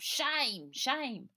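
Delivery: loud, high jeering cry; crowd cries of shame. Acted. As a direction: shout it at them like an angry crowd. Crowd crying out in pub.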